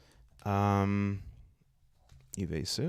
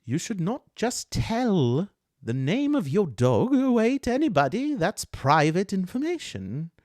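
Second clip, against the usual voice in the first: distinct touchy elf voice; 9 semitones higher, 6 dB louder than usual. Acted. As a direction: draw out the reprimand, high and loud. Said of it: "zero in on this voice".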